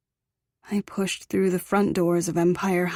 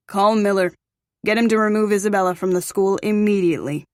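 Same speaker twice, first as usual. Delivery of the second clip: commanding; 4 dB louder, faster than usual. A narrator's reading. Father commanding bodyguard.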